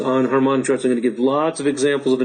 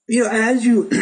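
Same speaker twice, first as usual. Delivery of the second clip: hoarse; 7 semitones higher than usual. Real, not acted. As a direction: voice going rough and scratchy. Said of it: "losing my voice here".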